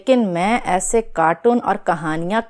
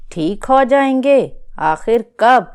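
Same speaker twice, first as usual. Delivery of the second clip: loud, high, disbelieving retort; incredulous outburst; 4 semitones higher, 4 dB louder than usual. Acted. Mother echoing her friend's reassurance in loud disbelief. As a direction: throw the words back at her, exasperated.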